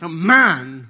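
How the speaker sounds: put-on loud stubborn toddler no, mine; mock toddler outburst; toddler refusing. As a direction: clutch the book and refuse. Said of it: "You say".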